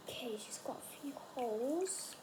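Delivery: soft whisper. Real, not acted. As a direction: breathe it as a whisper. Inspecting bomb closely.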